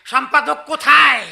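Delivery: irate husband demanding to see the editor; angry demand. Acted. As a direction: bark for the editor.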